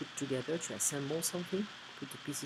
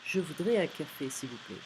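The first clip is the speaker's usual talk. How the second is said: less rude. Shown as a demonstration. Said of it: "Less rude".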